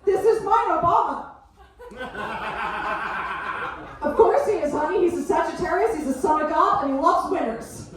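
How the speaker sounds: bubbly American mum chatting to a dog walker; mum's friendly gush. Retold or imitated. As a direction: son doing his chatty American mum, gushing. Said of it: "she'll be like".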